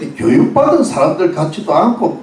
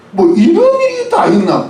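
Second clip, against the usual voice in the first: amazed crowd; 13 semitones higher than usual. Pretend.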